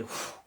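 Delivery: voiceless puff of released breath; exhale of relief. Retold or imitated. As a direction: blow out the burden in one breath. Imitates the weight lifting off.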